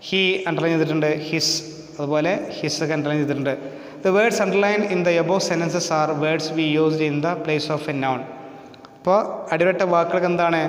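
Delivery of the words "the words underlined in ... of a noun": slow, careful reading of the rule; slow, deliberate classroom reading; textbook reading. Acted. Reads English definition from textbook.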